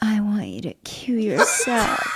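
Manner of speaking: put-on seductive voice. Retelling how Roz said the show's phrase: imitating Roz's seductive voice. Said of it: "Roz was like".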